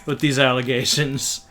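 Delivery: playfully indignant, punching the opening; mock-scandalized denial; mock outrage. Mock outrage at friend's accusation.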